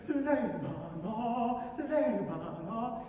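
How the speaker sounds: L'Ebano slowly, no doubled b; L'Ebano, single b, very slow. Shown as a demonstration. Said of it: "Without any double sneaking in".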